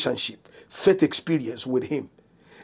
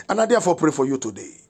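prayer of blessing. Real, not acted. Pastor praying for the listeners today, emphatic blessing. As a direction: pronounce the blessing with deliberate weight.

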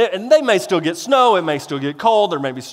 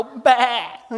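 sheep bleat; 5 semitones higher than usual. Pretend. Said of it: "I can't do a sheep voice".

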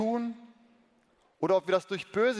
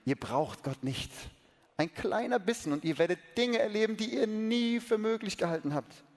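tempting serpent; 4 semitones higher than usual. Acted. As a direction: promise wonders, luring. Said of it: "flüsterte die Schlange".

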